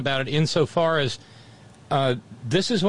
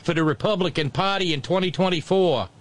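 mock New Jersey accent, a bit higher; 5 semitones higher than usual. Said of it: "terrible New Jersey accent".

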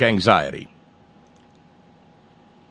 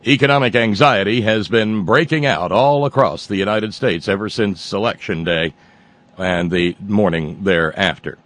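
newscaster voice. Pretend. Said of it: "let me get my newscaster voice".

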